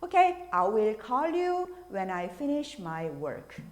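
very slow "Okay, I will call you when I finish my work"; slow model sentence; slow example. Shown as a demonstration. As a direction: say it slowly for learners. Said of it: "어떻게 말하실 수 있어요".

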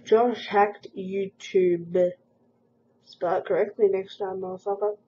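very slow loud read; loud mocking read. Reading a hate comment aloud.

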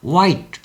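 English white for 화이트, no H; silent H. Shown as a demonstration. Teacher explaining the silent letter to learners, silent H. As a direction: start 화이트 on a rounded W, like wai-t. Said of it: "H가 소리가 나지 않기 때문에".

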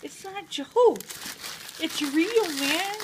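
high, laughing insistence; giggling protest. Real, not acted.

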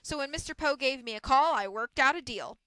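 lightly voiced boss, punchy key words; brusque mill boss. Mill boss offers orphans a deal, brusque. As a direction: lay out terms with businesslike force.

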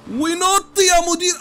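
high, loud, slowly stretched hype call; hype yell. Real, not acted. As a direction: cheer yourself off the ramp. Hyping the big jump.

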